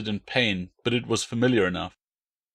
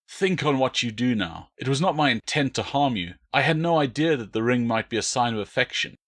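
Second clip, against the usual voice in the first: soothing; 2 semitones higher than usual. Acted. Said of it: "as he might to a frightened horse".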